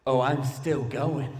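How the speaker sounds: slow, low, soft talking deer; deadpan deer. Acted. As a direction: lightly voice a stubborn deer, drawn out and quiet. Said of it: "the deer looks at me and goes".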